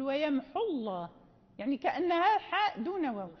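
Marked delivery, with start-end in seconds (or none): 0.0-1.1 "ويمحو الله" run together with no long u; waw dropped in connected reading. Shown as a demonstration. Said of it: "نقول". ("ويمحو الله" في الوصل بدون واو)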